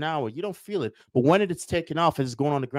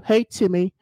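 high, sing-song nagging parent voice; imaginary caretaker coaxing Timmy awake, high and sing-song; mock wake-up call; 10 semitones higher than usual. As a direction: call him up out of bed like a fussing mom. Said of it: "No one is gonna show up and tell you".

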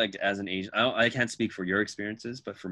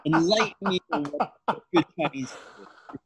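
loud, high-pitched mock eagerness; exaggerated sarcastic demand to be educated; sarcastic challenge; 7 semitones higher, 7 dB louder than usual. Retelling his comeback to the Chinese food boaster, sarcastic.

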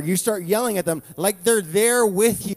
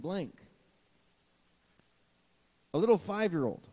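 somber; 6 dB quieter than usual. Real, not acted. Somber prayer for victims.

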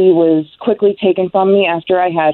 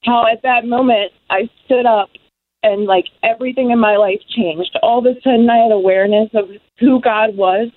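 real emotion lifting the voice higher; moved and awed, voice pitched up; emotional; 3 semitones higher than usual. Real, not acted. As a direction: testify while genuinely overcome with feeling. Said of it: "I get so emotional".

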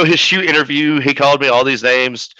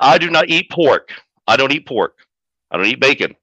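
movie quote impression; 2 semitones higher than usual. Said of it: "Dirty Work with Norm Macdonald".

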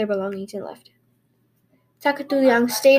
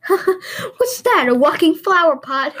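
higher, louder jeering villager; mocking taunt; 5 semitones higher, 4 dB louder, slower than usual. A narrator's reading. Villagers jeering at the girl with the pot, mocking. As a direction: sneer at her like a cruel onlooker.

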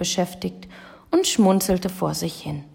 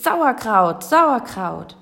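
higher, falling vendor's call, repeated; market cry; 4 semitones higher, 4 dB louder, much slower than usual. A narrator's reading. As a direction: hawk it across the market in a raised pitch. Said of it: "Hier rief es". (Marktschrei mit gehobener Stimme)

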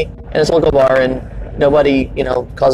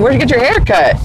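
put-on drunk heckler; 8 semitones higher than usual. Drunk guy taunt retold.

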